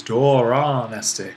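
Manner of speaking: DORON slow and accented on both syllables before esti; accents on both syllables. Shown as a demonstration. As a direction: stretch both halves of "Doron", then fall into "esti". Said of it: "same rule applies".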